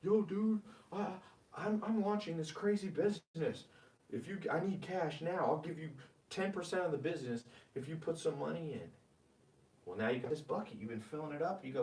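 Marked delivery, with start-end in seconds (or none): 0.0-8.9 hyped-up buddy begging for cash, pitched higher; eager friend's pitch. Retold or imitated. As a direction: play a pushy friend pitching a crazy idea. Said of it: "Some friend comes to you and goes".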